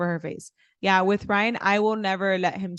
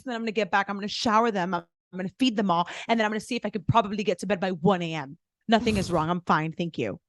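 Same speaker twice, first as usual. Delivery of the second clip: fast, overly bright, passive-aggressive; faster than usual. Retold or imitated. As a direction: list it all to guilt him. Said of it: "I'm very dramatic".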